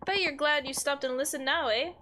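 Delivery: put-on old-timey villager with a tacked-on eh; amateur villain read, a little lilting; lightly voiced old-timey villain. Villager pleased that you listened, light old-timey villain. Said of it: "does kinda sound like an old-timey villain".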